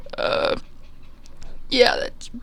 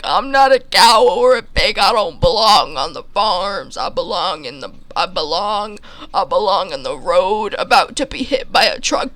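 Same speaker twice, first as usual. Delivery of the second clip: higher, louder protest; protesting squeak; 4 semitones higher, 4 dB louder than usual. Retold or imitated. Narrator protesting to the farmer he belongs on the road. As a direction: argue your case, getting worked up.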